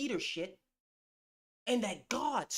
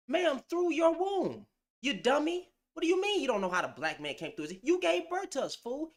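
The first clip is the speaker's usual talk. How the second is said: exasperated rant; 5 semitones higher than usual. Acted. To the panel woman on giving birth, an exasperated rant. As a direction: berate her like she's a fool.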